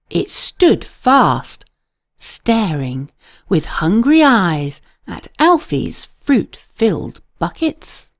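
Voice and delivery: usual speaking voice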